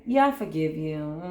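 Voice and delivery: dismissive, hollow "Yeah, I forgive you"; insincere forgiveness. Shown as a demonstration. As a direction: brush it off without meaning it. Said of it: "there really is no genuine forgiveness in that".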